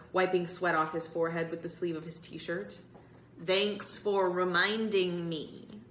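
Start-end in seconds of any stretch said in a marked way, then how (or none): 3.4-5.8 dry. Acted. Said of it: "Michael said dryly".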